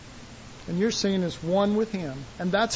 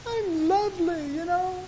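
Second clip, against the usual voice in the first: high, preening; mock smug self; 9 semitones higher, 4 dB quieter than usual. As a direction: play the self-satisfied bride. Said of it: "and you'll go".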